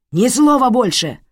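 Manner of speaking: loud, high roar to silence her; furious shout. Acted. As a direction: bark the order. Father silencing wife.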